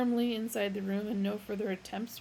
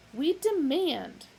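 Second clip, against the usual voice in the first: yelled; 7 semitones higher, 6 dB louder, slower than usual. A narrator's reading. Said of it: "yelled Vroomfondle".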